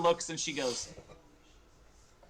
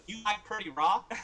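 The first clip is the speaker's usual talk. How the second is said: higher, simple-creature questioning voice; eager little one; 8 semitones higher than usual. Acted. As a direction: offer a treasure in broken speech, lightly voiced. Purdy offers Rook a gift.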